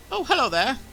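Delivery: friendly receptionist. Acted. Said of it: "he's gonna say".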